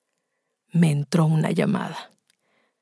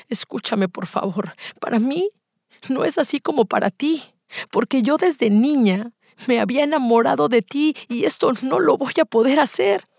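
pleading, rising higher as it goes; earnest plea; 6 semitones higher than usual. Acted. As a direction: act out an anguished confession of love. Acted plea to brother-in-law.

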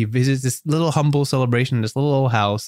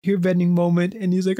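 ordinary talk

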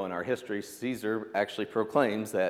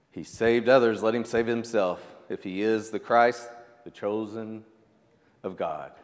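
sneering quote; 5 dB louder than usual. Retold or imitated. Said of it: "they sneered".

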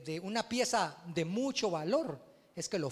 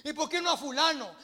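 mock complaining, pitched up a little; whiny complaint; 6 semitones higher, 5 dB louder than usual. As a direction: imitate a grumbling churchgoer. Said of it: "hermanos quejosos que dicen".

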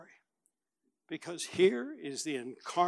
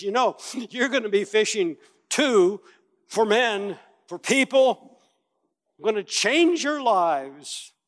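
Jesus' promise; 5 semitones higher, 7 dB louder than usual. Acted. Jesus promising the disciples a new calling, earnest. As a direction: promise it with conviction. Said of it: "He says".

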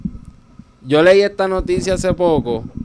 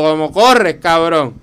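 mocking taunt; 5 dB louder, slower than usual. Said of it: "tratando de hacerme el burlón".

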